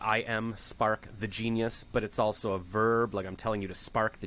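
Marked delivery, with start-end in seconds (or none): 0.0-1.8 slow, deliberate self-introduction; slow name demo. Shown as a demonstration. Trying out the name slowly to friend.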